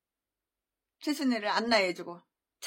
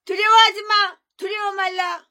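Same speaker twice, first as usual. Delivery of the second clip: reassuring command; 8 semitones higher, 9 dB louder than usual. Acted. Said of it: "두려워하지 말라고 했고요".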